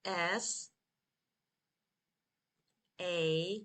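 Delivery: letters far apart, very unhurried; spelled slowly. Shown as a demonstration. Teacher leads learners through spelling Saturday, very slowly. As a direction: spell very slowly, a long wait after each letter.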